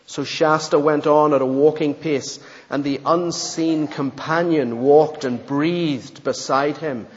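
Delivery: steady storybook narration; story reading. Acted. Preacher reading a story to the congregation, steady narration. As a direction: read the tale aloud evenly.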